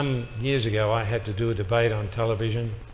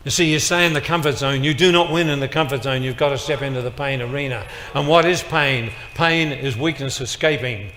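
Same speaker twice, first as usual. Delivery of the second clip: preaching loud; 2 semitones higher, 5 dB louder than usual. Real, not acted. Preacher drives home his point.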